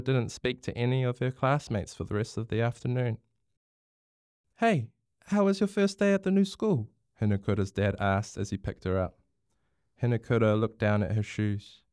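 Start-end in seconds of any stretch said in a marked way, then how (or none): 4.6-6.9 higher, upbeat fatherly question; cheery greeting. A narrator's reading. Dad picks Hinakura up from school, cheery. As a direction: greet your child brightly.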